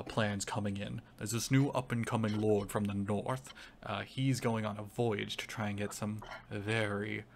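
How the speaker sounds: scummy crime lord with an Irish lilt; light Irish-tinged crime boss; accidental Irish accent. Acted. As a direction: pitch a shady venture in a light Irish accent. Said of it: "that's the best Irish accent".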